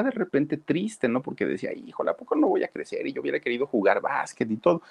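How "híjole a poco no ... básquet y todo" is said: put-on whiny little boy. Sad boy voiced by narrator.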